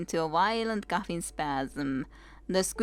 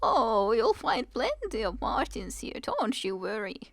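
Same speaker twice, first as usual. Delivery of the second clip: put-on smiling old woman; 3 semitones higher than usual. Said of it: "The cleaning lady smiles".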